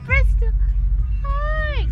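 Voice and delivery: bright high call to a pet; excited greeting. Real, not acted. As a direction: call out happily to the dog. Calling to the dog.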